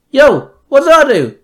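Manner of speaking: put-on high indignant teen yell. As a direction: shout it, offended and loud. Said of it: "Robin yelled".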